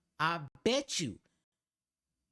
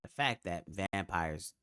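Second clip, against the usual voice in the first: deadpan disbelief; 13 semitones lower, 5 dB quieter than usual. Real, not acted. Deadpan disbelief about vampires.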